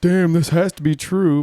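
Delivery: loud, slow, convinced; high and loud, mock-believing; gullible reader.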